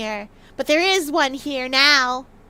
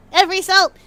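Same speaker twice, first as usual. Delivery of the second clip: excited exclaim; 5 semitones higher, 9 dB louder than usual. Real, not acted. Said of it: "excited about salt".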